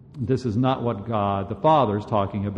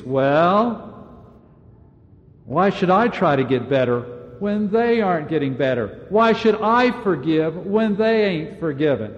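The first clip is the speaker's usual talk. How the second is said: mock excuse; 4 semitones higher than usual. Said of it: "So I use the excuse".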